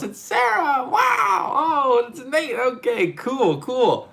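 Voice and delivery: very high, loud, laughing greetings; excited squeal. Real, not acted. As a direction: squeal their names with delight. Viewers arriving, greeting by name.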